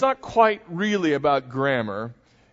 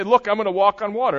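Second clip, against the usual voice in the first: excited swimmer; 5 semitones higher, 6 dB louder, faster than usual. Retold or imitated. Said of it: "hear somebody say".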